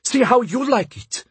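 high-pitched spiteful outburst; angry cry. A narrator's reading. Mistress jabbing her maid with a pin, crying out angrily. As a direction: cry it out high, lashing back. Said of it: "she cried".

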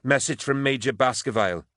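high, urgent report; slightly out of breath. A narrator's reading. Trooper delivering a message after running, slightly breathless. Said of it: "slightly out of breath".

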